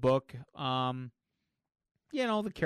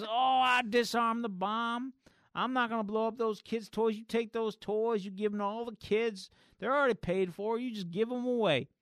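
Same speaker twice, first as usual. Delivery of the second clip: reformed villain; 6 semitones higher than usual. Retold or imitated. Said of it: "And he goes".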